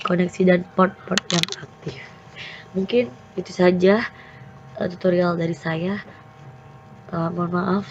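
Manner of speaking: rough, hoarse voice from being sick. Real, not acted. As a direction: talk through a sore, hoarse throat. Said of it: "suara saya lagi serak, lagi sakit". (suara serak karena sakit)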